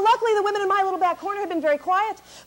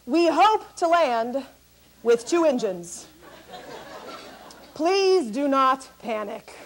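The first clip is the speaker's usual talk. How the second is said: slow, measured pilot voice; lower, drawn-out calm captain; pilot announcement; 4 semitones lower, much slower than usual. Retold or imitated. Pilot warning of an emergency landing, slow and measured. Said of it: "He says".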